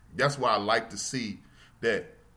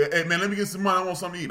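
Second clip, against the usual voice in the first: panhandler asking; 8 semitones higher, 4 dB louder, much faster than usual. Retold or imitated.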